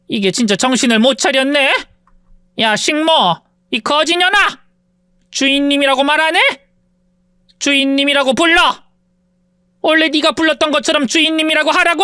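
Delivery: lightly voiced sneering rich woman; haughty rich woman. Rich woman taunts her former maid, mildly sneering. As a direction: look down on her with a lazy sneer.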